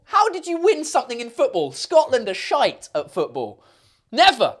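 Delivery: high-pitched teasing disbelief; mock incredulity. Real, not acted. Streamer teasing a Scottish viewer about football, incredulous. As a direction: scoff in disbelief, ending on a loud "Never".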